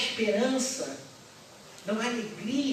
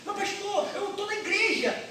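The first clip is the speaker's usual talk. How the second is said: objecting churchgoer; 10 semitones higher, 3 dB louder than usual. Acted. Voiced objecting congregant.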